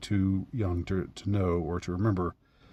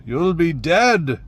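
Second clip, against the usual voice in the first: menacing threat; 7 semitones higher, 6 dB louder, slower than usual. Retold or imitated. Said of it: "And the guy says".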